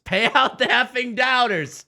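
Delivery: high, loud, drawn-out yell; big hollered demand; triumphant shout. Real, not acted. Shouted repeat of calm line.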